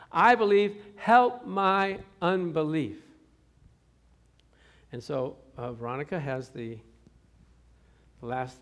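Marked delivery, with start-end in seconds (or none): 0.1-3.0 "help my unbelief" drawn out slowly, loud and pleading; a father begging the Lord with everything; slow crying plea. Retold or imitated. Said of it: "he'd say".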